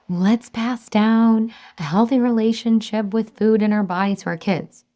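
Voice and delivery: acted-out advocate; mock rallying voice. Quotes herself cheerleading a cause.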